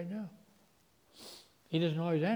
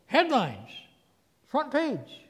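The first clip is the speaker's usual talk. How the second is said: usual speaking voice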